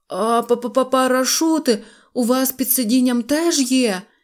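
stammering with fear. Narrator reading a story, voicing Pistryavenky asking a question, stuttering with fear. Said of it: "заїкаючись від страху".

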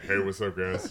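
loud, would-be menacing, intimidating tone. Retaking a greeting while trying to sound as intimidating as possible: mock intimidating voice. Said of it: "let me take that again".

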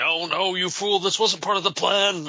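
high-pitched screaming robot voice. Voicing R2-D2 screaming at him in a movie scene: imitating R2-D2 screaming. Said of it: "R two is just screaming at him".

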